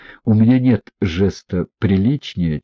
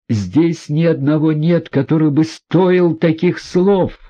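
higher, slowed indignant outburst; bursting out; 8 semitones higher, 3 dB louder than usual. A narrator's reading. Aglaya bursts out defending the prince, indignant. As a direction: let it burst out hot. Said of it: "разразилась Аглая".

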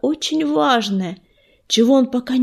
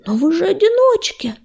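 high, bewildered protest; taken-aback objection; stammered surprise; 8 semitones higher than usual. A narrator's reading. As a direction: blurt it out in disbelief, pitch climbing. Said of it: "пролепетал он".

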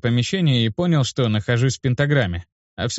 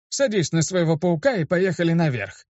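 put-on higher-pitched, creaking old man; creaky; 6 semitones higher than usual. A narrator's reading. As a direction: creak out an order like an old mage. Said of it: "проскрипел он". (скрипучий стариковский голос)

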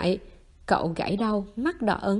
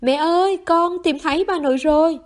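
loud, high call carried down the lane; shouting out; 6 semitones higher, 6 dB louder than usual. A narrator's reading. Boy shouts to his mother that he found grandma, loudly. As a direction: yell it out to be heard far away. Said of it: "chạy ra ngoài gào lên".

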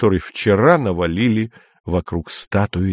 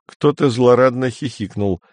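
usual speaking voice

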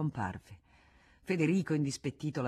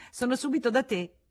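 high, louder, airy dismissal; Rosanette's voice; 9 semitones higher, 5 dB louder than usual. Acted. Rosanette sends Frédéric ahead down the corridor, high and airy. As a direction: wave him on carelessly. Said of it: "lei disse".

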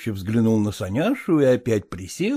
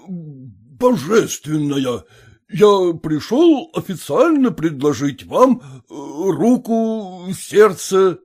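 pompous official proposal; 4 semitones higher, 4 dB louder, much slower than usual. Acted. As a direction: drag out each grand word like a speech. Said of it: "Зачем же божественно и официально?".

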